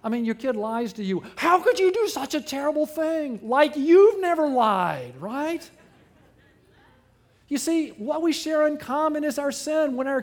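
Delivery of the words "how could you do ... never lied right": loud, high, mock outrage; hammed-up shocked gasp at the kid; mock shocked parent. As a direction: ham up the horrified parent scolding.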